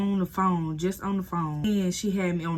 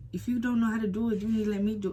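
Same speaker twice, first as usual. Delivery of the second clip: bossy boss; 5 semitones higher, faster than usual. Retold or imitated. Boss critiquing, voiced higher.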